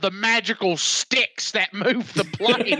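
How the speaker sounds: lightly voiced defiant film star; Michael Caine. Actor answering protesting crew at the controls, light impression. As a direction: put on a touch of the actor taking over. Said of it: "Michael Caine just said".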